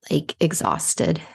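sleepy, slow and sighing; tired, yawning. Real, not acted. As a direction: drag it out like you're fighting a yawn. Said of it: "I started yawning".

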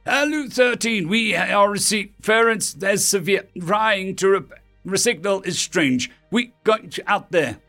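high voice breaking up mid-word; garbled radio message. A narrator's reading. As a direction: call through interference, words chopped off. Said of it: "The message from home was garbled".

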